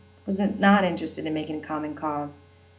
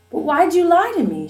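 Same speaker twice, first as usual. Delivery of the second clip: high, loud wounded plea; crying out; 11 semitones higher, 6 dB louder than usual. Acted. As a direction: demand it through hurt. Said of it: "she cried".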